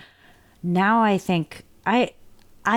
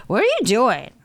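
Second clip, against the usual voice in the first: put-on little boy voice; 3 semitones higher, 3 dB louder than usual. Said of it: "he's like".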